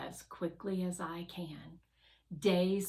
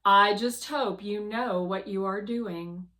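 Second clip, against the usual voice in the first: doubtful Guardian; 8 dB louder than usual. Acted. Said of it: "Guardian replies".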